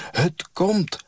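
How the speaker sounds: put-on high excited child's call. A narrator's reading. Child calls to the doctor across the field, excited. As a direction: shout it like a game's signal. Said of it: "riep ze weer".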